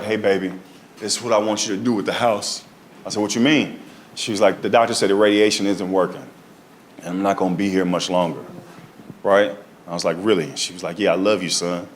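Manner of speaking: low, soft, quiet mother voice; low tender mother breaking news; soft sad mother. Retold or imitated. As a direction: say it softly like a mother with bad news. Voicing dying mother softly.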